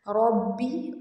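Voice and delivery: ربی with a heavy, full ra. Shown as a demonstration. Teacher shows students the heavy ra. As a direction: give the ra of ربی a thick sound. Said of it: "را کو موٹا پڑھیں گے".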